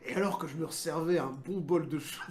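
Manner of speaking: light hardboiled detective narration; film noir voiceover. Pretend. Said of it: "je verrais bien une voix off de, de film noir policier".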